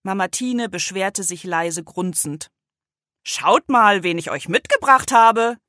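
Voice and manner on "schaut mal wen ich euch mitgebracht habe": grandpa voice. A narrator's reading. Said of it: "sagte Opa Hoppes Stimme".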